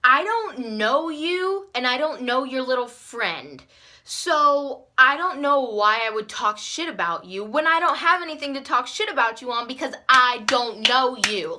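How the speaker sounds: mild retold telling-off. Girl telling off a classmate at her lunch table, telling off. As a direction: lay into her, drawing out "I don't know you". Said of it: "I'm, like, telling her off".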